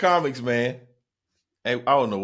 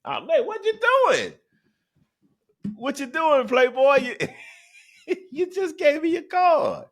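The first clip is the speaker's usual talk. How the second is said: high squeaky falsetto, laughing at him; mock falsetto teasing; 4 dB louder than usual. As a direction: tease him in a cartoonish falsetto. Teasing the driver over his card.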